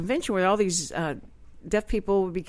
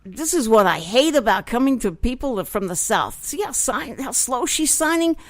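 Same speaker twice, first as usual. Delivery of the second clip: retold grumbling, played up; imitated impatient Northerner. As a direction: complain like a fed-up Northerner. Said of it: "I'm sure this is how it sounded as they signed it".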